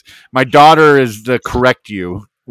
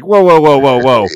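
mock alarm; 2 semitones higher, 5 dB louder than usual. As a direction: put the brakes on, mildly alarmed. Parent halting child's new opinions.

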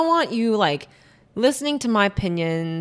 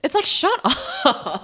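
high, laughing through shut up; 12 semitones higher than usual. Real, not acted. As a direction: giggle mid-word. Laughing at own rant.

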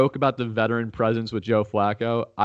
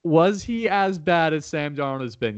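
higher-pitched, pressing question; insistent challenge; 5 semitones higher than usual. Real, not acted. Host presses co-host on Flacco versus Darnold, insistent. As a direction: push for a straight answer.

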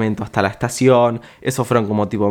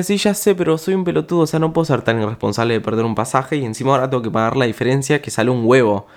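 exasperated self; 2 semitones higher, faster than usual. Retold or imitated. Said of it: "Yo decía".

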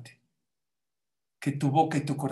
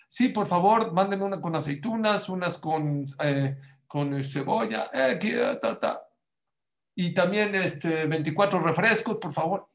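raised, cheery voice ordering pizza; teacher fakes an order on a toy phone, lightly raised; mock phone order; 3 semitones higher than usual. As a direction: play it up like a real phone order. Teacher keeps fake ordering.

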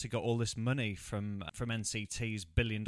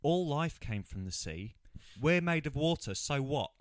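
mock deep line; 4 semitones higher than usual. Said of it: "Rod points to the sea and goes".

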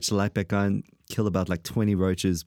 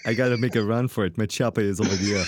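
action hero shout. Pretend. Playing fleeing action hero.

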